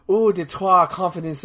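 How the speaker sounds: lightly hammed-up French accent; mistaken French accent. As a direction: slip into a mock French accent for the flamboyant character. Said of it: "I'm giving a French accent".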